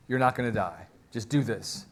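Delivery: low, soft reassurance; reassuring. Retold or imitated. Saul talking the frightened medium round, reassuring. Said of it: "Saul reassures her".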